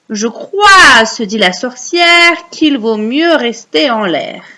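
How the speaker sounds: slow recital with a loud opening; recite for repeating. Shown as a demonstration. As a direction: stretch out the verse for children to echo. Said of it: "vous allez réciter après moi".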